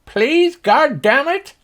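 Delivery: very high, loud cowboy holler; irate high-pitched farmer; grudging Slim Pickens. Acted. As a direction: force out the politeness in exasperation. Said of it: "If you imagine Slim Pickens".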